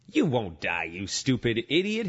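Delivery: sly serpent sneering the insult; a hint of a hissing snake. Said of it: "hissed the serpent".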